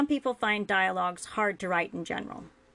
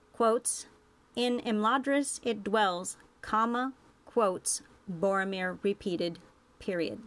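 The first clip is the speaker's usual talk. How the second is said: dictating. Shown as a demonstration. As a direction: spell out the punctuation marks aloud. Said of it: "has one example of this".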